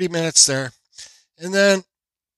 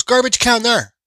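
high mock voice of the cashier, pitched up; imitating the cashier; 9 semitones higher, 6 dB louder than usual. Retelling the hot dog cashier's order, mock high voice. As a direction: put on the cashier's voice, higher and a bit louder.

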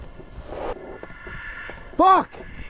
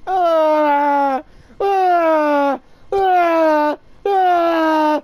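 panic; 2 semitones higher, 4 dB louder, much slower than usual. Real, not acted. Panicked stammering before losing.

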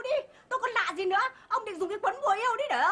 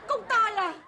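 comic crying over wasted effort; tearful wail. Acted. Wife hears the love charm may backfire, tearful wail. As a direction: lament it as if crying. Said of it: "Đừng có khóc nữa".

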